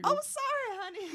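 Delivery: sharp pained yelp, then sorry; yelping after hurting a toe; stubbed toe. Pretend. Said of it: "I stubbed my toe".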